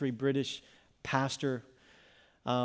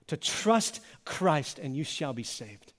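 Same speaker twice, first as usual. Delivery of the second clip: reverent hushed close; slower than usual. Real, not acted. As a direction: let it land gently and slowly. Solemn softened closing line.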